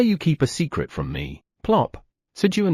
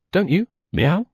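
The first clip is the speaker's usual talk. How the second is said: cat teasing; 7 semitones higher than usual. Acted. Cat Theo teasing question.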